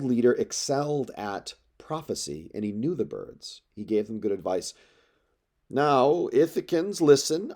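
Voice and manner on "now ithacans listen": louder and higher, summoning the crowd to listen; an elder raising his voice over the assembly; calling out. Acted. Halitherses calls the Ithacans to order, loud summons.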